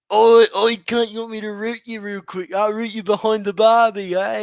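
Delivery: hammed-up Aussie bloke, loud opening call; brash mock Australian pickup line. Mate calling his mate out in a mock Australian accent. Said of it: "my Australian sound like an Australian doing a singer".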